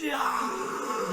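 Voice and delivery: shocked coworker caught out; Susie from accounting. Retold or imitated. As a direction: squeak it like a startled office colleague. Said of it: "Susie from accounting".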